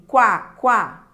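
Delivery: "Quá, quá" punched out, each growing from weak u to strong a; two loud bursts of "quá", stressed on the a; rising diphthong demo. Shown as a demonstration. Teacher inviting students to pronounce it, "Quá, quá" swelling onto the a. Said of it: "Você não vai do fraco".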